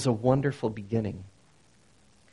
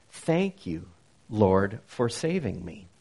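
grateful prayer; 5 semitones lower than usual. Shown as a demonstration. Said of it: "So Hosanna has come to mean".

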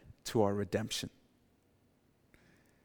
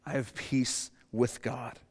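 slow sincere declaration; 6 dB quieter, slower than usual. Shown as a demonstration. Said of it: "and say".

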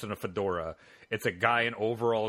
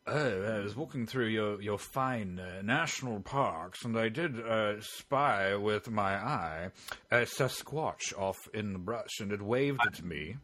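Oxford don voice; slower than usual. Retold or imitated. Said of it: "I want an Oxford Don".

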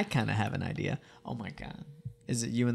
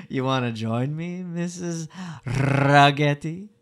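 put-on movie character voice; 3 dB louder, slower than usual. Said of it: "Let me find this voice".

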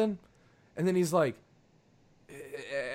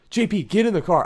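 raised, insistent order; retold yell; 2 semitones higher, 5 dB louder than usual. Driver to drunk friend walking down the highway, retold yell. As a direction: order him back, voice raised. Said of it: "five of us yelling at him".

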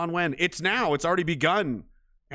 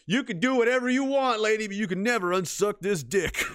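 quoted taunt; 7 semitones higher than usual. Retold or imitated. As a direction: fling the line at her like a punchline. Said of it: "I don't remember where I heard that".

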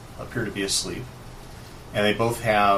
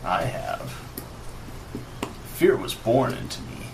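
lightly voiced brooding villain; a hint of a menacing wizard; villain monologue. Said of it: "goes into his monologue".

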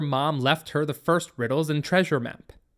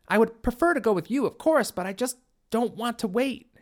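put-on higher, fast pleading girl; eager teen girl; 7 semitones higher than usual. A narrator's reading. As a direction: plead quickly, keen to go. Katie pleading.

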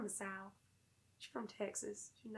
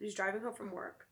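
storytelling voice. Acted. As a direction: build an eerie mood. Spooky story narration.

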